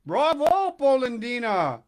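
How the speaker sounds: loud, high exclaim in the wrong voice; the mixed-up voice take; wrong character voice. Acted. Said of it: "I got the voices mixed up".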